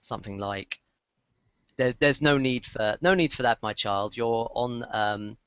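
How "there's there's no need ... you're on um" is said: authoritative voice. Acted. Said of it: "deeper, more authoritative voice".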